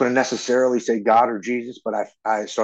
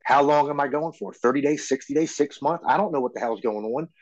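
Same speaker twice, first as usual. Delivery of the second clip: higher-pitched run of anxious questions; mild retold panic; 5 semitones higher than usual. Man retelling his panic before leaving for rehab, mildly panicked. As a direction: voice an anxious inner rant, pitched up. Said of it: "I'm having a panic attack".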